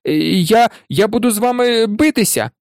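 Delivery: high, hesitant challenge; nervous but defiant, pitch climbing; defiant threat. A narrator's reading. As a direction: stumble into a brave threat. Neville threatens to fight his friends.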